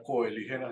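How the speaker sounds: "coelígena" starting with a hard k; "coelígena" said ko-e-LI-hena; rejected pronunciation. Shown as a demonstration. Teacher quoting the form they were corrected on, rejected pronunciation. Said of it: "me dijo que no se decía".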